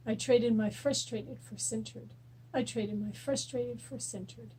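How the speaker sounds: soft rhythmic repeated affirmation, fading; tapping affirmation. Shown as a demonstration. Coach leading viewers through tapping, soft rhythmic chant. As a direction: chant it gently while tapping.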